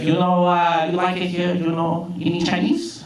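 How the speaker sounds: imitated boss in a Chinese accent; Big Chen. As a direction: chat haltingly in a mimicked Chinese accent. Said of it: "This is what Big Chen literally sounded like".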